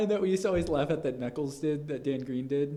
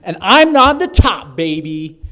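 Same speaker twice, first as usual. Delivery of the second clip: Escargoon; 9 dB louder, much slower than usual. Acted. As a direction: crow it slowly, then drop for the last word. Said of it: "with my Escargoon".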